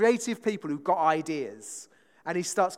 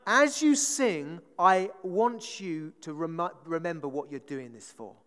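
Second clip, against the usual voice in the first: quoting a musician; 3 dB louder than usual. Retold or imitated. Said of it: "I'm not gonna do the accent".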